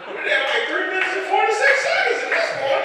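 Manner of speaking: heated storytelling burst; worked-up rant. Real, not acted. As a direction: pile it on in disbelief. Building outrage over light.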